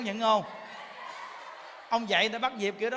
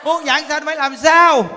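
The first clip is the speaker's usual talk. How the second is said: high, loud exhortation; fervent preaching; 5 semitones higher, 8 dB louder than usual. Acted. Monk urging listeners to recite, fervent preaching. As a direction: rouse the crowd to practice.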